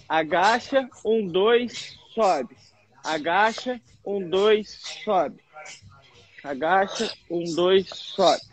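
trainer's measured squat count with pauses; counting exercise rhythm. Shown as a demonstration. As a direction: cue each move, rising on the way down, falling on the last word. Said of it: "só segurar ele aqui". (contagem ritmada de treino)

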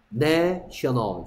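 내셔널 drawn out with a clear short "e" in 내; teacher sounding out 내셔널, stretched; pronunciation demo. Shown as a demonstration. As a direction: model 내셔널 slowly for learners, first vowel as in "net". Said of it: "얘가 발음이 뭐였다고?".

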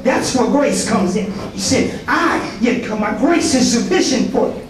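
rolling, rhythmic sermon cadence; preaching. Acted. Pastor exhorting the congregation, in a preaching cadence. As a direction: preach it to the church, building each line.

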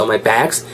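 "bags" with a wide-spread A; mouth stretched wide. Shown as a demonstration. Teacher shows mouth shape, wide vowel. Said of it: "입 좀 쫙 째시면서".

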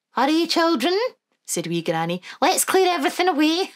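put-on high, lilting old Scottish granny; Wee Granny voice. Granny to the children, high and fond.

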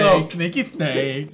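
slow lisping snake voice. Pretend. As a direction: hiss it out slowly like a snake. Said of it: "I'm a snake".

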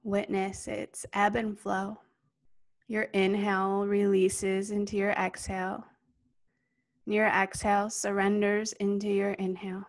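calm yoga nidra guidance, spacious and steady; guided meditation. Real, not acted. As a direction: guide them gently into stillness, unhurried.

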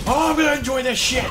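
high, fast gleeful shout; bursting with glee before the fight; excited shout. Real, not acted. Gamer hypes himself up for combat, excited shout.

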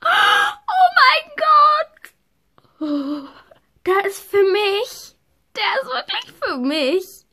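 high, crying shout of joy; overjoyed crying. Real, not acted. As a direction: sob out the disbelief of a dream come true. Girl finds her own horse. (Mädchen schluchzt vor Freude über ihr Pferd)

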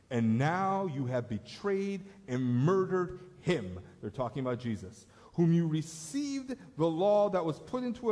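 fiery martyr rebuking his accusers; Stephen accusing. Acted. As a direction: hurl the charges at the council. Reads Stephen's accusing speech.

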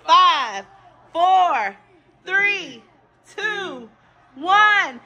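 shouting the countdown; new year countdown crowd. Real, not acted. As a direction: count down loud and excited.

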